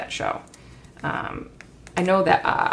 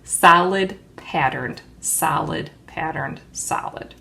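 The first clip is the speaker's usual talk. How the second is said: slowed down; 5 dB louder than usual. Real, not acted. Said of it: "slow down".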